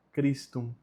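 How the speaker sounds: "Christum" opening on a hard K, KRIS-tum. Shown as a demonstration. Teacher modelling the Latin prayer word, "Christum" said with a K sound. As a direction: say the CH of "Christum" as a plain K. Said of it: "tem som de K".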